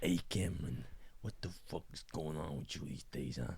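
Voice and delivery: put-on scolding parent voice; hammed-up parent character, nagging; parent impression. Mock parent berates Cameron, in character voice. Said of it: "done the impressions of my parents".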